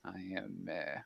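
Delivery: a lightly voiced soldier, formal and friendly; Minx in character. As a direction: speak as Minx, stiff and formal.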